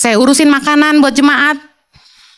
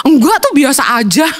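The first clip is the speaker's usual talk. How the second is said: laughing casual reply. Retold or imitated. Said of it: "Peserta kami ketawa".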